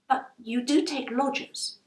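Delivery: put-on earnest, hopeful young woman asking; a hint of an anxious girl; young Rose. Rose presses the landlady.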